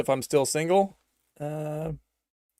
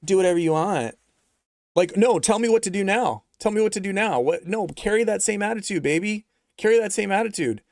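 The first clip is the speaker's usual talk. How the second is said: raised, pleading mock partner voice; mock needy partner; 6 semitones higher than usual. Mocking a man anxiously asking his partner what to do. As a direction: beg for instructions in a whiny put-on.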